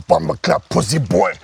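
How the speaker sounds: imitating a Jamaican accent; mock Jamaican patois. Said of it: "talking in a Jamaican fucking accent".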